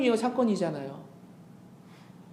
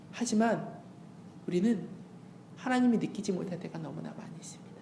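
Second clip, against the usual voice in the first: hushed whisper; 9 dB quieter than usual. Acted. Preacher whispers confession.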